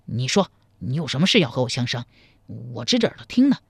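lightly voiced man, low; low male questioning, understated; attentive man. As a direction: ask her lightly in character. Man character asks.

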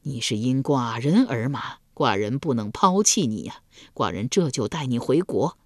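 a hint of heartfelt promise; moved. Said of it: "齐桓公动情地说道".

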